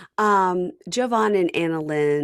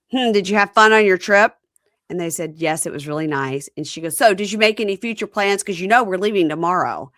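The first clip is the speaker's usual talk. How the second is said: loud, pointed questioning; lightly voiced mother; prying mother; 3 semitones higher, 5 dB louder than usual. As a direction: probe like a nosy mom.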